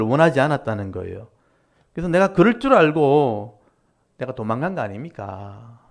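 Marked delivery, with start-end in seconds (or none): 1.9-5.8 sarcastic jab. Retold or imitated. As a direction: throw the line back at God. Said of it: "비꼬면서 얘기하는 거예요".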